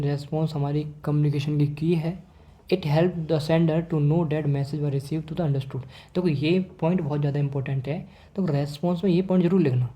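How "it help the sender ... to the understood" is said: reading the English note aloud slowly for students to copy; a teacher dictating a definition at a slow pace; slow dictation. Acted. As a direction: spell it out slowly, word by word, like dictating notes.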